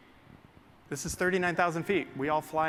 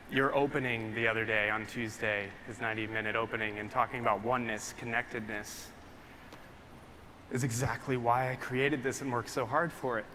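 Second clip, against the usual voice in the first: emotional; 4 semitones lower, 4 dB quieter than usual. Real, not acted. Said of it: "I'm sorry if I'm getting emotional".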